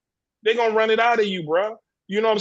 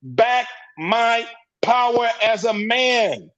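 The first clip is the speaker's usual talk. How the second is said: defiant declaration; 2 semitones higher than usual. Retold or imitated. Men reclaiming their power.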